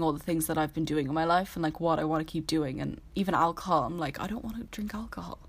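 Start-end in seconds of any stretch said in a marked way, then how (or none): 4.2-5.4 soft unvoiced whisper of a private resolve; whispered inner voice. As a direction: whisper it as if to yourself. Inner voice refusing alcohol.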